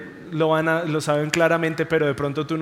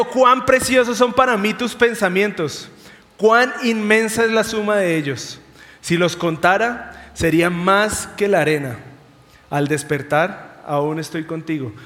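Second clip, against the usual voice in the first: exclaiming; 2 semitones higher, 3 dB louder than usual. Retold or imitated. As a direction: cry it out in awe. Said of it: "como si David estuviera gritando". (exclamación fuerte y alta)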